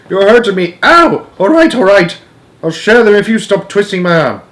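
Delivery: high, loud yelping; grandma yelping while arm is twisted; pained cries. A narrator's reading. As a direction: cry out in pain, then give in.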